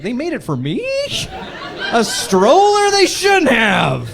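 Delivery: a hammed-up gasp of delight; mock flattered. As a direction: play it like a gift for you. Mock touched by sign.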